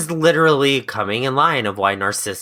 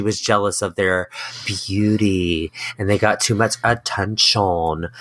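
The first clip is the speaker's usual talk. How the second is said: put-on a light French accent on the line, not strong; 3 semitones lower than usual. Cohost retelling history with a slight French accent. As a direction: slip into a hint of French. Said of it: "I don't know why I had a French accent there".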